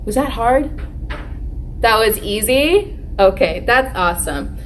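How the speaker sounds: put-on lightly cheerful teacher voice to kids; kids show host. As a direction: talk warmly to little kids. Teacher addressing children on video.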